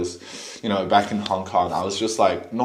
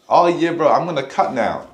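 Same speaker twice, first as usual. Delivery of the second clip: louder, higher gym bro imitation; mock gym bro; 6 semitones higher, 5 dB louder than usual. Mocking guys who cut too soon, loud bro voice. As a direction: ham up a clueless gym bro. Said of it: "they're like".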